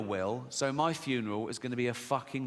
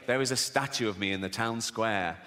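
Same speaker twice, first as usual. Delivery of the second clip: lower-pitched mock grandee; self-important eminent person; 6 semitones lower than usual. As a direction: play a pompous dignitary, pitched down. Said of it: "eminent people going".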